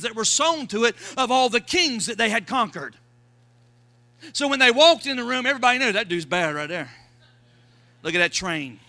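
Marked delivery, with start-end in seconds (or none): 5.9-8.8 low, mock-awed bystander voice; lightly voiced awed crowd; awed onlooker. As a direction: gawk at the king's long train. People watching king's train.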